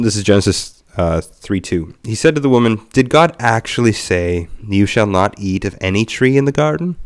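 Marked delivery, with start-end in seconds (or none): 2.0-7.0 dramatized reading. Acted. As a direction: read it like a storyteller. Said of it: "That was a dramatized version".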